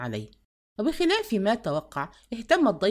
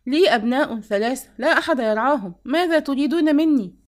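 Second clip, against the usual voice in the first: higher and louder, rising in protest; desperate cry of a mother; 5 semitones higher, 7 dB louder than usual. A narrator's reading. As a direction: plead out loud to the officers. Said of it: "فهتفت".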